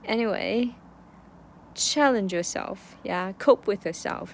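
slow, drawn-out pep talk to herself; slow encouraging words to herself; self-encouragement. Real, not acted. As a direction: coax yourself on gently. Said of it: "我经常鼓励学生".

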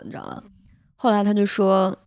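ordinary talk, nothing marked

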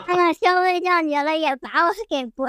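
embarrassed, giggly; nervous laugh. Real, not acted. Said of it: "好尴尬的笑呀".

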